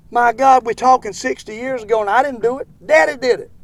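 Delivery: loud, exasperated outburst. Real, not acted. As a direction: raise your voice, fed up. Irritated defense against critic.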